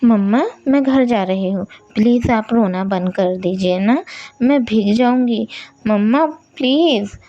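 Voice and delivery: put-on a girl urging her mama to stop crying; child calling up to the sky; little girl pleading. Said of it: "बोलती है".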